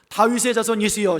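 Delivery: loud lead for the congregation. Shown as a demonstration. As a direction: model a loud call for others to repeat. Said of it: "큰 소리로". (큰 소리로 선창하듯)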